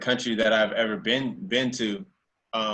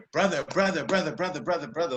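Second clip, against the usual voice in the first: locals greeting warmly; 6 semitones higher than usual. Retold or imitated. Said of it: "Like, it's just like".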